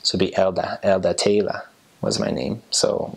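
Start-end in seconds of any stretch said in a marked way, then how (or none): 0.3-1.6 Elda Taylor with no R sounds. Shown as a demonstration. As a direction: end Elda and Taylor on an open "uh". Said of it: "E R ends up sounding like an A".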